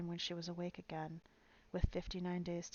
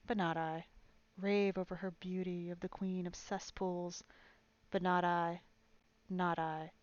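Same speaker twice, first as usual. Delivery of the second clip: defiant shouting; 4 dB louder than usual. Acted. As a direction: spit each insult at the queen. Old woman's defiant rant.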